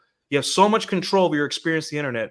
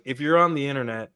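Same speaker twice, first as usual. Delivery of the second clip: put-on Indian accent. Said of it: "in his Indian voice".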